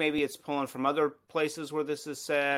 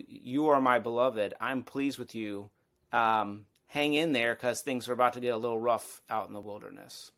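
lower, gentle reassurance; assurance and comfort; 3 semitones lower than usual. Retold or imitated. God reassuring Jesus before the wilderness, gentle and low. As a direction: comfort him before the hard road ahead. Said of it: "a word of assurance and comfort".

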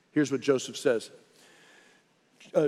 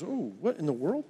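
retold astonishment; 4 dB quieter than usual. Doctor reacts on seeing it, retold.

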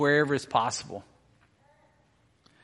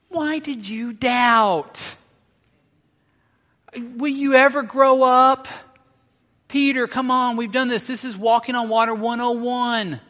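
exasperated tone; 7 semitones higher, 6 dB louder than usual. Acted. Jesus chiding doubting Peter, exasperated. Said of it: "I want to read this with a tone".

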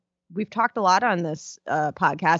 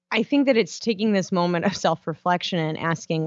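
ordinary talk, nothing marked

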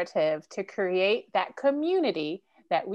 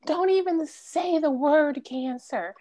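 quoting "have faith"; 6 semitones higher, 3 dB louder than usual. Retold or imitated. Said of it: "people say".

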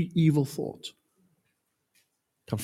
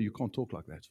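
much softer, low repeated rebuke; quiet retelling; 6 semitones lower, 14 dB quieter than usual. Retold or imitated. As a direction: say it softly as reflection. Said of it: "First time somebody told her".

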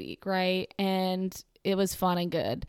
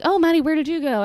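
higher and louder, chirpy mock bro; 7 semitones higher, 8 dB louder, faster than usual. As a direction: imitate the guys asking eagerly. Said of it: "And they'd be like".

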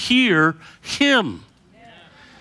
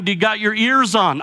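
CB radio talk; 4 semitones higher than usual. Retold or imitated. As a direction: call it out like a trucker on the CB. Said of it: "in nineteen seventies C B vernacular".

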